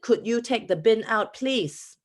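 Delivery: Singaporean English, Could you said flat and firm; Singaporean request. Retold or imitated. She repeats her request to housemates, in a lightly Singaporean accent. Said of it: "in a really rude way".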